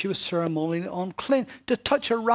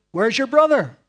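God questioning; 4 semitones higher, 9 dB louder than usual. Acted.

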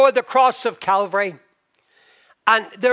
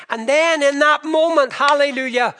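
lifted, louder burst of praise; exultant preaching; 5 semitones higher, 4 dB louder than usual. Real, not acted. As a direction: proclaim it with rising joy. Preacher exults at moment of salvation.

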